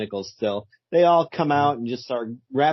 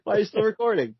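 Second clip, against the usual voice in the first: higher, whiny mock complaint; mock annoyed whine; 5 semitones higher, faster than usual. Mock Paranormal Activity argument.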